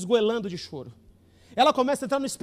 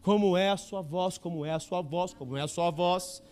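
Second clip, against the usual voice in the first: pleading prayer; 2 semitones lower than usual. Retold or imitated. Praying on the mountain at night.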